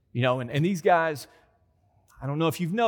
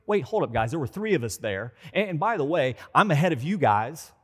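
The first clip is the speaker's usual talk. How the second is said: Peter voiced. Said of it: "what was he thinking".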